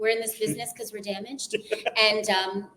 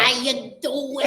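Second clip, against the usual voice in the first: Alf impression; 3 semitones higher, 3 dB louder, much slower than usual. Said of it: "Oh my God, yeah".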